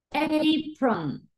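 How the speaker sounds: "Apron" with stretched ey: eyy-pron; long A in apron. Shown as a demonstration. Teacher models the word for learners, long A in "Apron". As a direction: draw out the first vowel of "Apron", ey. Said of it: "¿Dónde encontramos estos sonidos?".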